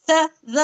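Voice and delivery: स, ज as light, thin "sa, za"; thin, normal letters. Shown as a demonstration. Teacher pointing out letters near the belly, thin स, ज. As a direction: say स, ज lightly without rounding or thickening. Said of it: "इसे हमें normal पढ़ना है, बारीक".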